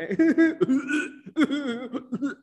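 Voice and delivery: high, loud burst of laughter; big laugh. Real, not acted. Preacher laughing at his own teenage vomiting story, loud laugh.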